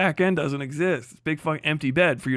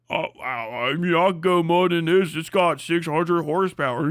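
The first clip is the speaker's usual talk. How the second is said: mock bro. Mocking truck owner bragging.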